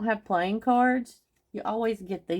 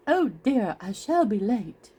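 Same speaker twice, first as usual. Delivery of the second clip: light hint of a fussy rabbit, higher; flustered little late rabbit, lightly played; fretful White Rabbit; 3 semitones higher than usual. Showing Alice in Wonderland paper, quoting the rabbit in a lightly fretful voice.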